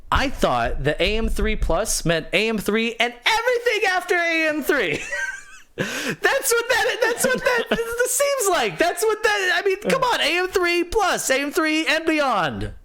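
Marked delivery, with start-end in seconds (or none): 3.0-12.7 much higher, cracking up mid-sentence; laughing disbelief. Real, not acted. Gamer realizing his CPU doesn't fit, laughing in disbelief.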